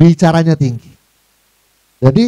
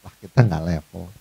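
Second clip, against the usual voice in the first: lower, softer, haughty dismissal; understated snooty aside; snobbish remark; 12 semitones lower, 7 dB quieter than usual. Acted. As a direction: brush them off like a snob. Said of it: "Tapi bahasanya tinggi".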